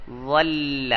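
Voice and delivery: ول said as dhall with a heavy emphatic ض; Arabic ض sound. Shown as a demonstration. Teacher showing students the emphatic Arabic sound. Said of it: "ضوا کے ساتھ".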